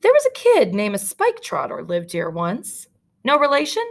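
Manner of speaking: the clerk probes the stranger; nosy clerk. Acted. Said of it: "the reception clerk said".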